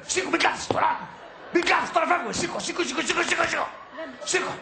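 agitated, repeated orders to get up; insistent urging. Acted. Angry partner rousing the other to leave now, insistent. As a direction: hurry them out of their seat.

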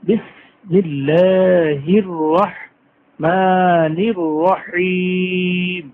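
very slow drawn-out chant; Quran recitation. Shown as a demonstration. Teacher reciting basmala for the class, slow tajweed chant. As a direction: stretch every vowel like a reciter. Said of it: "teacher recites basmala".

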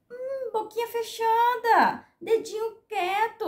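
slow, high sing-song scolding; mock hushing. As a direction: shush them like naughty little children, drawn out. Mock hushing of online critics. (bronca fingida, aguda e arrastada)

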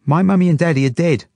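put-on high, loud child voice; little girl's voice. A narrator's reading. Zelda addresses the Jewish couple, high little-girl voice. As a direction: pipe up like a bold small child.

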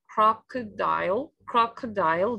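CROCODILE with the stress on CROC; careful teacher's "crocodile", strongest on the opening syllable; stress on first syllable. Shown as a demonstration. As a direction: model "crocodile" clearly, leaning on the first syllable. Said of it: "is on the first syllable".

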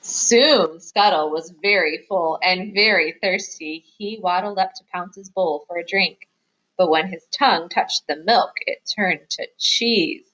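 lively picture-book reading, stressing key words; story narration for children. A narrator's reading. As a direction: read it aloud to little listeners. Reads picture book aloud.

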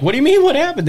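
high-pitched mock indignation; imitated indignant questioning; retold incredulous reply. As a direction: act out baffled disbelief, pitch jumping up. Retells his indignant reply.

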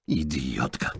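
low, dismissive one-word dig; parting insult. A narrator's reading. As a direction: toss the insult off on leaving. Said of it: "rzucił, wychodząc z restauracji".

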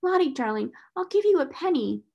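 high, sweet-talking bribe; coaxing. A narrator's reading. Schoolgirl bribes a crying child with a penny, coaxing. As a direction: coax a crying child, pitch up. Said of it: "alternately coaxing and scalding her".

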